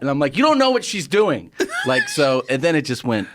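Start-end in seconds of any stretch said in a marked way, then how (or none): 0.4-1.5 high, exasperated retort, retold; heated protest. Comic defending himself to the audience, retold heated protest. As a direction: argue back in a raised pitch.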